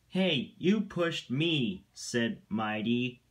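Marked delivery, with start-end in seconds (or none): 0.1-1.9 higher-pitched protest, mildly indignant; indignant retort. A narrator's reading. Mighty blames Mac for the push, indignant. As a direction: throw the accusation back, higher. Engines quarrel over who pushed.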